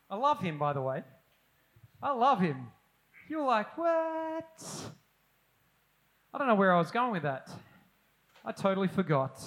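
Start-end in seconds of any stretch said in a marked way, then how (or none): 3.8-4.9 baffled what. Pretend. Listener confused reaction.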